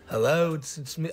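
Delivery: lightly attempted British accent; terrible British accent. Mock greeting imitating a singer, in a bad British accent. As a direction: have a loose go at a British accent.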